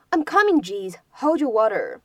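exasperated I'm coming, jeez; teacher acting out impatience; irritated reply. Shown as a demonstration. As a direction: huff it out, annoyed at being rushed. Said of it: "我来了，来了".

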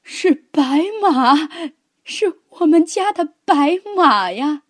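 excited shout of recognition; sudden cry out. A narrator's reading. Grandmother calling out that the horse is back, crying out. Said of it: "奶奶突然大叫起".

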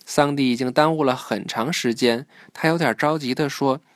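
clear, measured storybook reading; children's story narration. A narrator's reading. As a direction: read the story aloud to a child.

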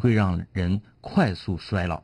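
slow deadpan joke setup; telling a dad joke. Acted. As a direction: draw out the setup slowly, straight-faced. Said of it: "我给你讲个冷笑话".

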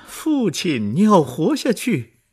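high, loud desperate scream; begging him not to die; anguished cry. Acted. Cosette to her dying father, anguished loud cry. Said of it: "科赛特凄惨地叫着".

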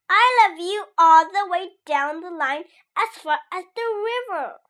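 a bunny shouting across the field; eager cry. Acted. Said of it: "cried Little Nut Brown Hare".

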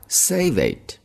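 mock-annoyed boss cutting you off; playfully acted angry boss; irritated boss. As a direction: brush off the excuse, a bit fed up. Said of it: "你的老板就生气了".

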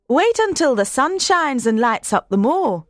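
a hint of a cheerful promise; lightly voiced Martha. A narrator's reading. Martha promising nicer weather.

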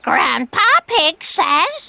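parrot mimic. Parrot repeats Grandpa's phrase.

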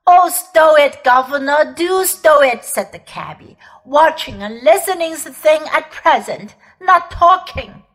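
loud Cockney cabby telling off; brusque, loud working man; gruff cabby. Acted. Cabby silences Uncle Andrew.

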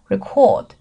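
record as a verb, re-CORD; weak first syllable, stressed CORD in record; stress on second syllable. Shown as a demonstration. Teacher repeating the recording's word, record stressed at the end. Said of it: "它重音在后面做一个动词".

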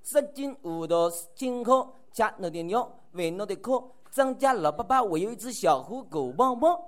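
Shanghai porridge seller's cry. Retold or imitated. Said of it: "这是干嘛的呀？".

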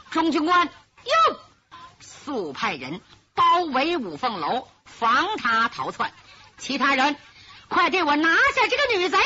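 loud, sharp orders to the soldiers; commanding shout. Acted. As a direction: bark the arrest order. Acting governor barks arrest orders. (厉声下令)

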